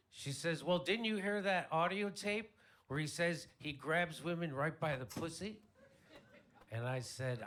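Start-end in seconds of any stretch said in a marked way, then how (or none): 0.6-5.6 high, loud indignant question; mock-indignant, pitched up throughout; upset sister. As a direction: imitate an outraged sister making her case. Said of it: "My sister's all upset".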